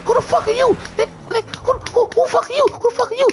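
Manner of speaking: high, frantic yelled questions; retold yelling. Two men grappling, yelling at each other, high frantic shouting. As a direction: bellow it over and over in a panic. Shouting at the intruder mid-fight.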